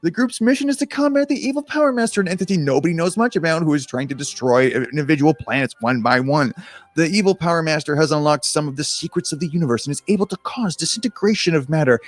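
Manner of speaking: animated read-aloud, punching the dramatic words; story narration. A narrator's reading. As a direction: narrate a sci-fi adventure with playful drama. Reads the game story aloud.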